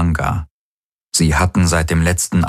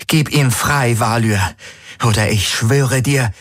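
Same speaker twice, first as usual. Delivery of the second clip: higher, fierce threat; threatening demand; 6 semitones higher than usual. A narrator's reading. Kirai threatens the possessor Valyr, higher and fierce. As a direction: threaten him with everything you have.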